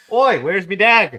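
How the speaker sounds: put-on slow Australian accent. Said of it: "yelling shit out in fucking Australian".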